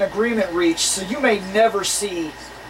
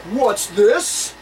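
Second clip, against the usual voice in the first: slow, drawn-out TV announcer; much slower than usual. Retold or imitated. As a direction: announce it like a puzzled TV host. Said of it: "he's like".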